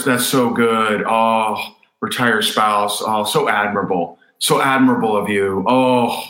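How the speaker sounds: hammed-up flattery, cooing over someone; mock gushing praise. Coach mocking the praise people crave, gushing. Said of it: "the emotional payoff".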